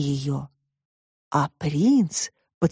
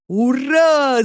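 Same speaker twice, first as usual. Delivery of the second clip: a high, louder cheer; robot shouts hooray; 6 semitones higher, 3 dB louder than usual. Acted. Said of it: "закричал домашний робот". (радостный громкий крик робота)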